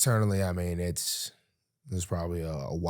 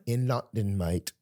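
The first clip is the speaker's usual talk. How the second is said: lower, softer mock London accent; 6 semitones lower, 5 dB quieter than usual. Guest confirming to host, mock London accent. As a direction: answer in a put-on London accent. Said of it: "Is that a London accent".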